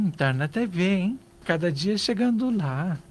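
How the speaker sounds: a touch of sour envy; quiet envious jab. Shown as a demonstration. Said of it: "você percebe, você sente".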